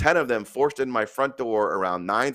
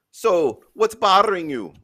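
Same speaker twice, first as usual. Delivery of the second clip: higher-pitched amateur Irish brogue; Irish accent; 7 semitones higher, 4 dB louder, slower than usual. Acted. Priest in a joke asks the widow, amateur Irish accent. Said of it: "do my best Irish accent".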